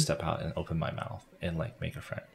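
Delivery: soft, retold inner pep talk; quiet self-talk. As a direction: talk yourself into it under your breath. Voicing his timid inner resolve.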